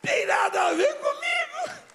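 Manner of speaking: high-pitched, loud hammed-up protest; protesting shout. Pastor disowns praise of his speaking, protesting shout. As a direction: shout it out in comic outrage.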